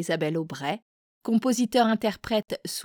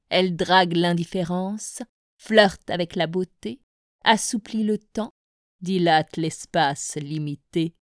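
measured poem reading, pauses after each verse; poetry recitation. Acted. Presenter reads the featured poet's verses to listeners, poetry recitation. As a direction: recite verse by verse, letting each line settle.

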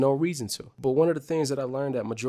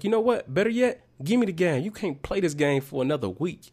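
much higher mock stern mom; mom taking the game; 5 semitones higher than usual. Mom confiscating the Game Boy for a week, high mock stern voice. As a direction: hand over the game, lightly voiced mom. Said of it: "She was like".

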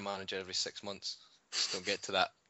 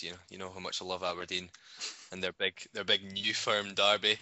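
sarcastic. Real, not acted. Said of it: "He said sarcastically".

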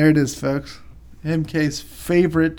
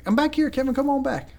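mother-in-law calling out; 10 semitones higher than usual. Retold or imitated. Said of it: "She's like".

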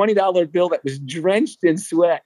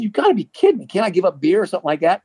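incredulous protest; 3 semitones higher, faster than usual. Retold or imitated. Pleading with the coach over donuts.

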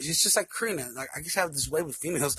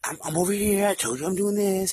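louder, higher retold protest; imitating exasperated girlfriend; 4 semitones higher, 6 dB louder than usual. Girlfriend defending her plans, imitated exasperation. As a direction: insist like someone being pestered. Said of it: "She gets all crazy like that?".

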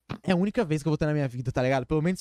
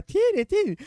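put-on high, louder urging from the girl; 4 dB louder than usual. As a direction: hurry him on as her. Voicing the girl. (a menina insistindo, aguda e mais alta)

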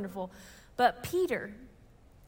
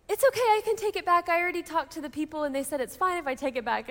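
lightly voiced mother, starting high; retold placating mother; 3 semitones higher, faster than usual. Mother offering to take the kitten back, lightly acted placating. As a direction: imitate someone hurriedly placating, pitch coming down.

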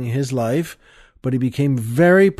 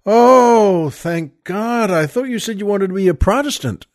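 relieved nun; 5 semitones higher than usual. Retold or imitated.

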